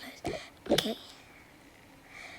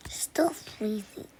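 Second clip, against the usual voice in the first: shivery whisper; much slower than usual. Pretend. Shivering in pretend snowstorm.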